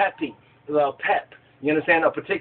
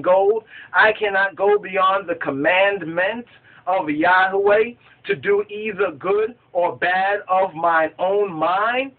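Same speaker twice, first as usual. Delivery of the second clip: slow, weighty declamation; scripture reading; 2 semitones higher than usual. Acted. Balaam answers Balak he cannot go beyond the commandment, solemn scripture reading. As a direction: proclaim the verse in drawn-out, measured phrases.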